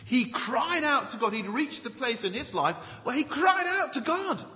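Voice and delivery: "cried out" pitched high and stretched; emphatic. Shown as a demonstration. Preacher stressing how Jabez prayed, "cried out" high and emphatic. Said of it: "That's very emphatic".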